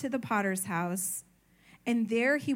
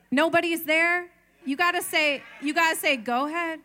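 calling out; 5 semitones higher, 6 dB louder than usual. Real, not acted. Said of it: "coaching congregation to respond".

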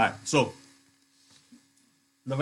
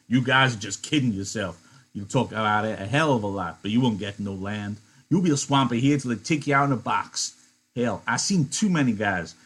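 a little louder, blunt and harsh Crooks; brutal Crooks; 4 dB louder than usual. Acted. Crooks cutting down Candy and Lenny's dream, harsh. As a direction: crush their hopes bluntly. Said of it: "Crooks interrupted brutally".

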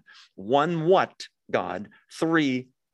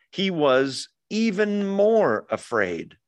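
more afraid drawn out slowly; stress on more; 4 semitones higher, slower than usual. Shown as a demonstration. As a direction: lean on "more" in "even more afraid", slow. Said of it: "E-, e-, even exceedingly afraid".

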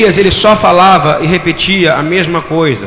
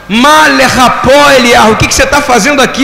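fervent question; 6 semitones higher, 4 dB louder than usual. Acted. Preacher voicing the Lord's question.

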